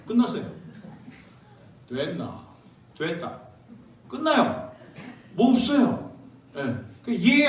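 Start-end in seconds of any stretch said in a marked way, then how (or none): 1.9-3.4 curt, low Gyeongsang tone; short and blunt like a Pohang man; Pohang dialect. Retold or imitated. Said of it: "포항 사람들은 어떻게 하는 줄 아세요?".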